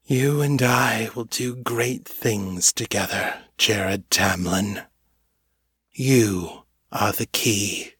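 calm otherworldly voice, slowing to a deliberate close; quiet, gentle, unnerving. A narrator's reading. Huge cloud being recruits the bound telepath, gently unnerving. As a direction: gently promise it, slowing on the name. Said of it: "its quiet, gentle tones were strangely unnerving".

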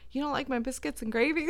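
mock defensive. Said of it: "he's getting defensive".

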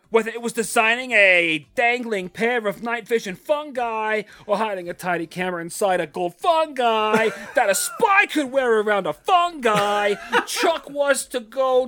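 hammed-up Midwest accent, loud; Midwestern accent. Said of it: "That's a twenty eighteen accent right there".

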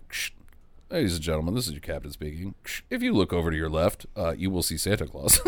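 low, soft crackly intercom voice; airport announcement. Retold or imitated. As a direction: pilot on the plane intercom. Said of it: "the pilot is like".

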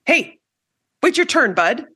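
light, high-pitched playful rebuke; jokey call-out to an interrupter; humorous. Shown as a demonstration. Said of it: "you might do so with humor".

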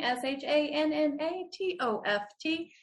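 "S H A N N A T O F T" said letter by letter; spelling it out. Shown as a demonstration. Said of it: "that's same spelling".

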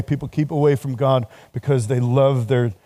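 normal talking voice

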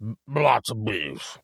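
slow, lips too puffy to move; swollen lip. Real, not acted. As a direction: bees blurred through swollen lips.

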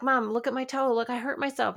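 a touch of a six-year-old's fake cry; whiny little daughter. Little daughter showing her hurt toe, half-crying. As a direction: pitch it up, mock-pleading like a small child. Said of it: "she's kinda crying, but not really".

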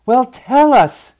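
high, loud, drawn-out demand; exasperated mother, stretched shout; impatient yell. A narrator's reading. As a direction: yell for the answer. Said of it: "yelled Mama".

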